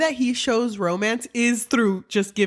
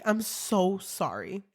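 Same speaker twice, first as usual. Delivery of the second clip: soft mock apology; 7 dB quieter, slower than usual. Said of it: "it's like".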